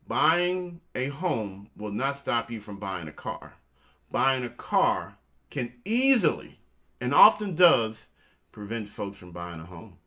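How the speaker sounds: slow, deliberate, every word spaced out; said slowly. Shown as a demonstration. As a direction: spell it out slowly so it sinks in. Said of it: "I'm gonna say it slow".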